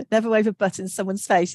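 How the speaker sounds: laughing through the words. Real, not acted. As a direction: read it out while laughing. Repeating a funny chat comment.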